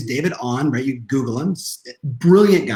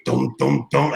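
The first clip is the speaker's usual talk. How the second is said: imitated footsteps; 2 semitones lower, slower than usual. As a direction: mimic heavy steps overhead. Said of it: "My son just walked above me".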